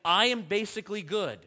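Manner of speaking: a smug religious man, lightly voiced; mock self-righteous boast. Preacher mimicking the religious man, mildly smug. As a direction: preen a little as you claim to be good. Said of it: "who wants to justify himself and say".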